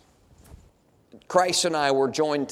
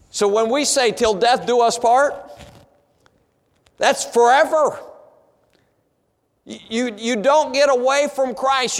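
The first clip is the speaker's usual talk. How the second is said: high, loud, fervent preaching; preaching at full force; 7 semitones higher, 5 dB louder than usual. Acted. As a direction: lift the congregation with rising fire.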